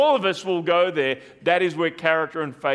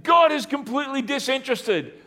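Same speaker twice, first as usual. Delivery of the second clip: higher, plaintive complaint; voice of doubting feelings; 7 semitones higher than usual. Acted. Preacher voices the listener's doubting feelings, higher. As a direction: whine it as the hurt feeling. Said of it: "your feelings might say".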